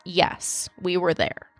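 put-on a boy quietly giving in to police questions; quiet admission. Softly confessing with a dropped voice. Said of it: "finally and quietly admits".

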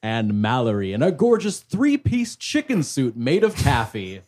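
bright, showy emcee introductions; pageant host. Pretend. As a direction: sell it like a beauty pageant host. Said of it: "I'm your pageant host".

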